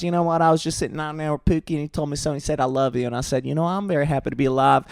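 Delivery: imitating a Southern belle telling a sweet anecdote; lightly voiced Southern belle; little-anecdote voice with a hint of the South; Hawk Tuah's little Southern belle. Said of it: "Now she talked like this. She a little Southern Belle".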